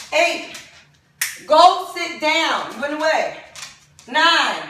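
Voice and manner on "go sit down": firm slow command. Real, not acted. Shooing dogs again.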